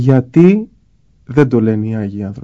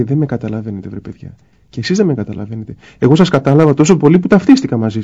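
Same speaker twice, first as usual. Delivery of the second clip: hurt complaint. Retold or imitated. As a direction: let it sound like a sigh of disappointment. God's complaint voiced by the speaker.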